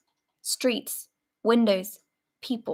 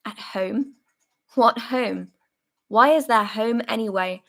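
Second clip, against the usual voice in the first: hoarse, emotional rant. Acted. Soldier raging at comrades who talk of home, hoarse fury. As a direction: spit out the anger and fear. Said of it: "hoarse and quivering with emotion".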